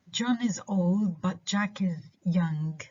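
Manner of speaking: put-on "but" left weak between "old" and "Jack"; unstressed BUT. Shown as a demonstration. Teacher giving an example, "but" unstressed. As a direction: pass lightly over "but", stress the content words. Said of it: "but in this sentence are not stressed".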